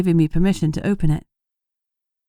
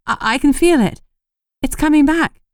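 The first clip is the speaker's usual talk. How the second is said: awed relief; 9 semitones higher, 4 dB louder than usual. A narrator's reading. Magic returning, awed relief.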